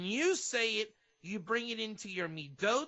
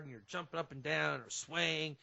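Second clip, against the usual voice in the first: ordinary talk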